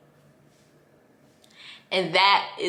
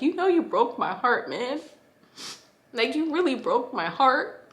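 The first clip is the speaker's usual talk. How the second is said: retold crying; 4 semitones higher than usual. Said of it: "just crying and being like".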